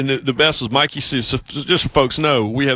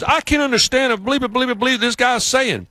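baffled coworker; 11 semitones higher than usual. Retold or imitated. Editor who can't follow the interview, high mock voice. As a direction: play the confused Yankee editor. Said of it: "and he goes".

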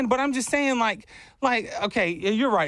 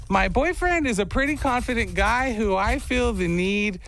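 lightly voiced girl, higher pitch; 4 semitones higher than usual. Reading Michaela's message to the show, light girl voice. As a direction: read it in a slightly raised girl voice. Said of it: "You hear his girl voice".

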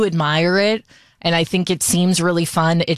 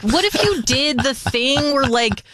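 tentative salon client; 6 semitones higher than usual. Retold or imitated. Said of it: "And I'll be like".

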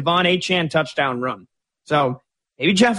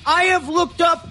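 over the top analyst voice, pitched way up; Ron Jaworski impression; 12 semitones higher than usual. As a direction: do a Frank Caliendo style Jaworski. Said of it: "that was like my Frank Caliendo impression of Ron Jaworski".

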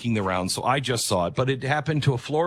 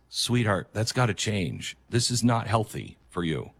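gently lowered, tender voice; loving correction; 2 semitones lower than usual. Acted. Loving partner telling a sweetheart what must change, gently.

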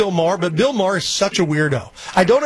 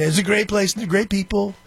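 Trump impression; 3 semitones higher than usual. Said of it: "He's basically doing a Trump impression".

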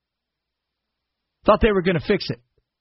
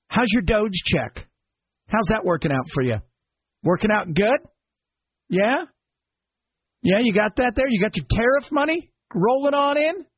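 high, mocking questions; sarcastic taunt; 5 semitones higher than usual. Real, not acted. Host taunting listeners about promises, sarcastic and high. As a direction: rub it in with fake cheer.

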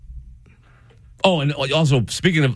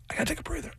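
much softer, nearly gone; fading out; 15 dB quieter, much faster than usual. Retold or imitated. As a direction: let the voice fade away. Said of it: "was winded".

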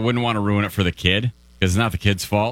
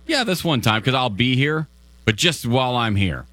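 sheepish and reluctant; 2 semitones higher than usual. Pretend. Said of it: "act, like, really sheepish and reluctant".

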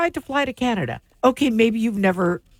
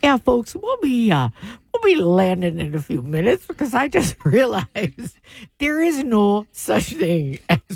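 pilot announcement voice. Pretend. Mock pilot announcement, laughing.

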